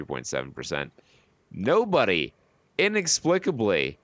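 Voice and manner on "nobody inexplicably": higher-pitched, amazed emphasis; incredulous, raised voice; astonished announcement. Real, not acted. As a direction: announce a surge nobody can explain. Announcing a surprise chart surge.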